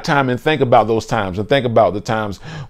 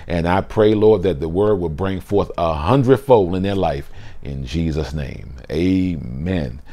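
prayer; 3 semitones lower than usual. Acted. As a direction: pray over the listeners, reverent. Closing prayer over listeners.

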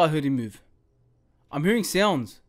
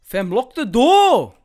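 louder, drawn out urgent command; urgent slow call; 6 dB louder, slower than usual. Real, not acted. Scared gamer urging himself to lock the door, slow and loud. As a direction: press the words out slowly, urgently.

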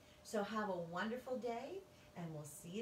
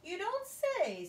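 sarcastic; 12 semitones higher, 8 dB louder than usual. Acted. Witch mocks principal.

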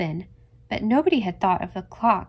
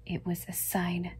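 softer, whispered portent; ominous whisper; 3 semitones lower, 10 dB quieter than usual. A narrator's reading. Aunt Mary Maria warns Annie of doom in a whisper. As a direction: hush it like a dark omen.

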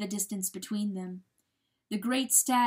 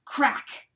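sharp crack; 5 semitones higher, 5 dB louder than usual. A narrator's reading. Narrator voices hoof striking ice.

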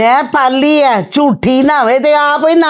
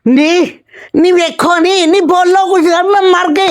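dramatic wailing; slower than usual. Acted. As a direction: throw up a hurt lament. Mother-in-law wails at accusation. (ਉੱਚੀ ਦੁਹਾਈ ਦਿੰਦੀ ਆਵਾਜ਼)

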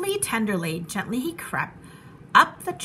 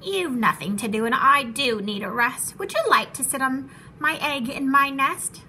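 sweet-talking; 2 semitones higher than usual. Acted. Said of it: "smiling her best".

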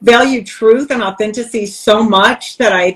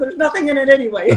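laughing; 5 semitones higher, faster than usual. Retold or imitated. Joking retort to the prison bully.

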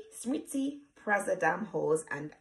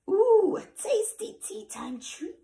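gloating ogre; 4 semitones higher, 4 dB louder than usual. Acted. Ogre gloating over treat.

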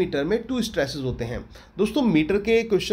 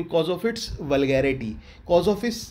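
slow dictation; much slower than usual. Shown as a demonstration. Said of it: "slow explanation".

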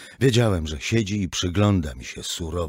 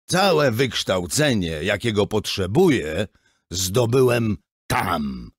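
slow, loud stubborn pride; defiant boast; 3 semitones higher, 5 dB louder, slower than usual. Acted. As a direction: hammer each word home. (ojciec uparcie i dumnie)

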